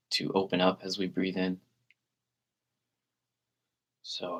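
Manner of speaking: calm meditation guide with long, unhurried pauses; guided meditation. Real, not acted. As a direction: gently lead listeners into relaxed breathing, leaving space between phrases.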